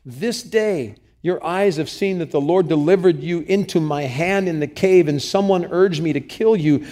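urgent, forceful scripture reading; passionate plea. Acted. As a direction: declaim it with passion. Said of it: "There is passion here".

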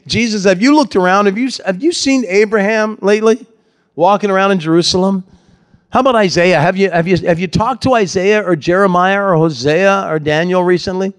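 a lightly sarcastic taunt, pitched a bit up; mocking. Mocking crowd taunting Jesus, mild sarcastic taunt. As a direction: needle him with fake curiosity. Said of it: "They're mocking him".

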